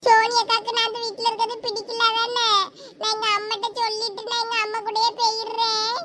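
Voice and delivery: acted tearful child complaint; tearful hurt. Child feels unwanted and threatens to leave, tearful. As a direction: sound hurt and close to crying. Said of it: "அழாத".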